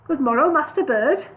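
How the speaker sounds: courtly greeting. Acted. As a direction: greet the bird with grand courtesy. Dwarf bows, formal greeting.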